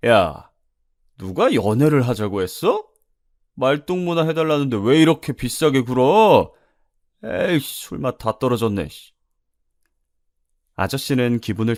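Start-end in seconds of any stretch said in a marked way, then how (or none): 0.1-9.1 loud opening shout, then indignant grumbling; angry customer. Acted. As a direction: lash out at the waitress who refused you. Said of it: "아저씨가 화를 내면서". (화내며 버럭하는 손님 말투)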